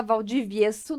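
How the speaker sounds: put-on Valdivieso with an Italian accent. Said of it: "eu tava falando já com um sotaque italiano".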